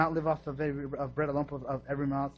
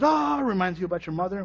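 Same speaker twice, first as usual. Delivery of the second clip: mock outburst; 3 semitones higher, 4 dB louder than usual. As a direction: squeal it like an offended driver. Mocking road-rage driver.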